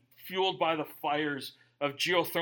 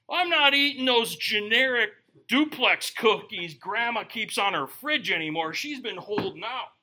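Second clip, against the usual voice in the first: excited discovery; 4 semitones higher, 7 dB louder than usual. Retold or imitated. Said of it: "And it was like".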